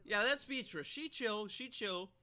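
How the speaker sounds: lightly voiced southern drawl, high; playful southern accent; a hint of southern twang; mock southern accent. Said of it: "talking in a southern accent".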